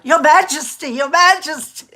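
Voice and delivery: high, loud mock call to the King; retold calling out. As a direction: replay trying the call herself. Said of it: "So I thought I'd try it".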